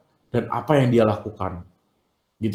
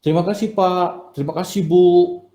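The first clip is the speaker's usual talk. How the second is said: lightly voiced sweet student; polite student thanks. Shown as a demonstration. Teacher acting a well-mannered student thanking teachers, lightly raised. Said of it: "Itu kan anak yang enak ya".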